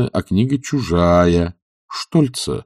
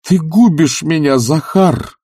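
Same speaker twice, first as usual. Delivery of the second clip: high, loud pathetic lament; 9 semitones higher, 4 dB louder, slower than usual. A narrator's reading. Master lamenting to his servant, high and pathetic. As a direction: make it a theatrical plea. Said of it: "произнёс Обломов патетически".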